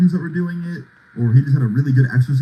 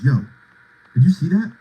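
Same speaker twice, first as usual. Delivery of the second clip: startled, higher pitch; alarmed whisper-shout; 5 semitones higher than usual. Retold or imitated. Friend spotting someone in alley.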